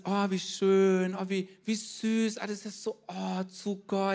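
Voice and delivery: slow, syrupy mock gush over something cute; hammed-up cutesy coo, slowed right down. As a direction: lightly parody people cooing over sweet lambs. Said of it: "dann kommt ganz schnell einfach irgendwo so dieses".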